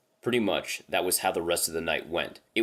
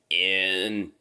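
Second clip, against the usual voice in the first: halting inhuman voice; 4 dB louder than usual. Retold or imitated. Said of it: "it just keeps saying".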